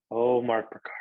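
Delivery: name whispered, nearly no voice. Real, not acted. Host thanking his co-host, whispering the name. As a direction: hush it to a whisper.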